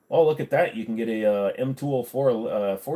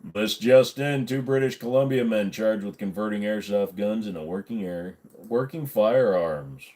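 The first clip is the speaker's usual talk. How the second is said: newsreader voice. Shown as a demonstration. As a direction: read it like breaking news on TV. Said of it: "You like me reading in my newsreader voice?".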